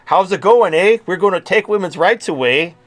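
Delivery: high, loud mock Canadian accent with "eh".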